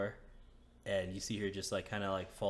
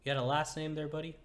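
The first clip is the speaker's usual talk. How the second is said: higher, louder woman asking names; curious woman; 6 semitones higher, 5 dB louder than usual. Acted. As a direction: ask brightly as the woman. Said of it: "She's like".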